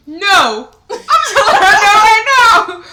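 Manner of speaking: high, screamed refusal with laughter; drawn-out, laughing shriek of refusal; outraged refusal. Real, not acted. Outraged at being told to sit.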